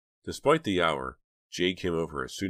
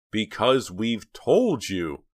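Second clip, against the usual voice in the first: slow, loud, raised pitch; exasperated outburst; 6 semitones higher, 8 dB louder, much slower than usual. A narrator's reading. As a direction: push each word out, close to screaming. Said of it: "so exasperated she felt like screaming".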